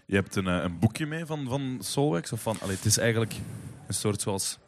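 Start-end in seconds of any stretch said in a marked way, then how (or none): none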